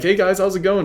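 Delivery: high, loud cop hello; feigned friendly greeting. Retold or imitated. Cops pretending they don't know the group, overly casual. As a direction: imitate a cop playing innocent. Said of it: "pretending like they don't know us".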